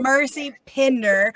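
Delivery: "Pinder" drawn out with the I sounded; pronounced I. Shown as a demonstration. Host settling guest's surname for listeners, pronounced I. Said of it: "we're pronouncing the I".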